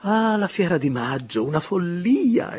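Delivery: high, loud, laughing dismissal; exclaiming. A narrator's reading. The marchesa recalling the fair to the table, high excited exclamation. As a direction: toss it off as a giddy folly. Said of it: "esclamò la marchesa".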